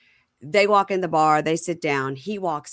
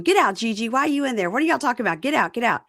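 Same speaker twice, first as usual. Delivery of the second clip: higher, urgent mock pleading; retold agitated demands; 5 semitones higher, faster than usual. Demond circling Gigi's car, retold with agitated insistence. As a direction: fire off insistent questions and orders.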